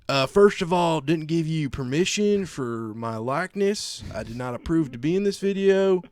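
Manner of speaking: imitating the redneck who claims he's copyrighted, loud and high; angry redneck. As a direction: rant like a self-important redneck. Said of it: "And he goes".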